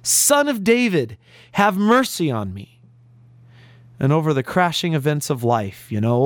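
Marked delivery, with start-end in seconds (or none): 0.0-2.7 restrained plea, pitch lifted; mild higher-pitched cry for help; retold crying out. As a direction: quote a beggar calling for mercy, without shouting. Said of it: "begins to cry out even louder".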